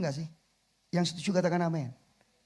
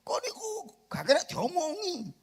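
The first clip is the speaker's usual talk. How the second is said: Surabaya rudeness; 11 semitones higher, 3 dB quieter, slower than usual. Retold or imitated. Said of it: "lek ngomong ke istri suaminya".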